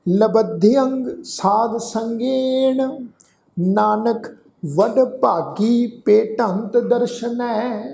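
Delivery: slow, drawn-out sacred recitation; scripture recitation. Shown as a demonstration. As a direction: recite slowly, holding the long vowels. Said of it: "ਸਮੁੱਚਾ ਪਾਠ ਫਿਰ ਤੋਂ ਉਚਾਰਨ".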